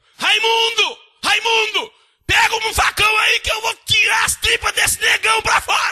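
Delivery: very high, very loud, shrill, furious full-force scream. Retelling his mother screaming at Raimundo, imitating his mother screaming. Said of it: "Minha mãe gritando".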